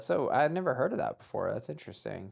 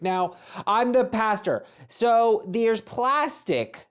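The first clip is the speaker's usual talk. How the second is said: high, loud, hammed-up complaining customer; entitled Karen customer; 5 semitones higher, 4 dB louder than usual. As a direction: play the outraged diner demanding a refund. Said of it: "I'll be the customer talking to the waiter".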